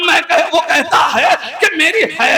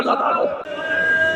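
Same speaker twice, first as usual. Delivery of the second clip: hushed whisper; 7 dB quieter, slower than usual. Acted. Orator blessing the tale to the mourners in a whisper. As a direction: breathe the blessing, slow and voiceless.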